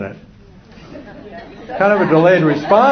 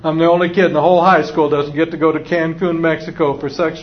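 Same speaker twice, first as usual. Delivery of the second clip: mock adolescent whining; complaining teenager; 2 semitones higher than usual. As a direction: pile up the grievance like a teen. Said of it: "the voices start getting louder".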